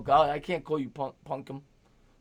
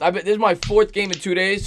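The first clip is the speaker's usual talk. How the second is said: ordinary delivery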